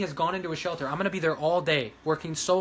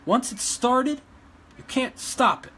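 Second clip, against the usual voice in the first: raised, angry insistence; heated insistence; 7 semitones higher than usual. Real, not acted. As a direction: drive it home at her critics. Defiant rant at her critics.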